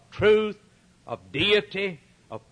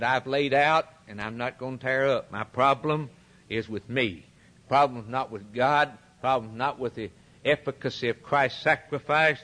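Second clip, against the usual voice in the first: a hint of a proud, refusing king; King Agrippa answering; 5 semitones lower than usual. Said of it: "And King Agrippa said".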